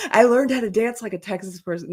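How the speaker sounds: lightly voiced proud beginner; proud dance imitators. Imagining the ladies back home after copying her dance, mildly boastful. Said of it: "go home and be like".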